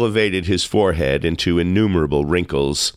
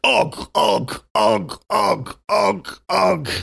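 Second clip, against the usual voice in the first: high-pitched chuckle in repeated grunts; mock chuckle; 13 semitones higher, much slower than usual. A narrator's reading. Tarpaulin carries on regardless, chuckling high. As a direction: chuckle high, one burst at a time. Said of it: "chuckled Tarpaulin".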